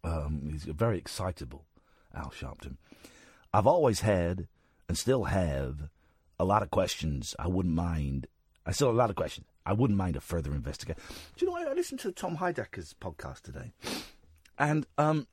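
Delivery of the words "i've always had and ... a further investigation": put-on generic American accent. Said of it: "I will do the American accent".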